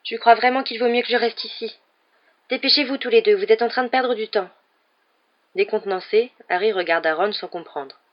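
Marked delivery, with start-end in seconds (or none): 0.1-4.5 put-on high, louder girl's voice; small high voice. A narrator's reading. Hermione sends the boys away from behind the door, high-pitched. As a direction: urge them on in a high little voice. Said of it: "une petite voix aiguë".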